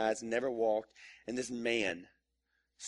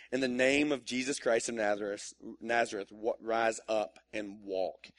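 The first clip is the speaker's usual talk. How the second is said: slow solemn command; 2 semitones lower, slower than usual. Acted. Reads the healing command.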